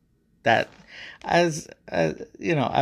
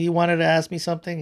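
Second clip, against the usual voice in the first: quick, higher, amused question; broken chuckles; 5 semitones higher, faster than usual. Acted. God inviting Adam's question, tail end of chuckles. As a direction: pull yourself together after a laughing fit. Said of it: "he said, through broken chuckles".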